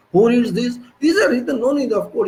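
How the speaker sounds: laughing scoff. Real, not acted. Scoffing laugh at code readers.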